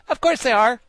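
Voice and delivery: very high, loud pronouncement; high, emphatic character voice; Wogglebug declaring. A narrator's reading. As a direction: assert it as beyond question. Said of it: "the Wogglebug declared".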